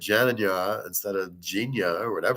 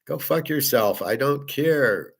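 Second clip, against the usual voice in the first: higher-pitched exasperated mock blow-up; pitched-up fed-up retort, final words slowed; retold angry outburst; 5 semitones higher than usual. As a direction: replay snapping at her, fed up. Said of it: "And I'm like".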